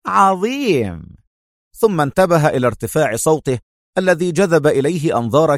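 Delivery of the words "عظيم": high, slow drawn-out cry of joy; happy exclamation. A narrator's reading. Lancelot hearing the good news on the phone, happy high cry. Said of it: "هتف لانسلوت في سعادة".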